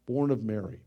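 normal talking voice

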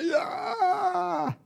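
high exultant yell; a whoop of pure joy; joyful shout. Shown as a demonstration. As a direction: let out a big joyful yeah. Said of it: "you just wanna".

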